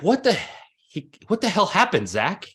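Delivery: shocked coach. Retold or imitated. Coach shocked at rider's crash video.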